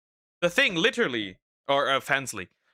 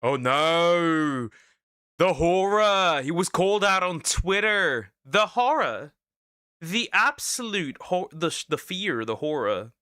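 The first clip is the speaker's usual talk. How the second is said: mock horror. Sarcastic mock horror at callout.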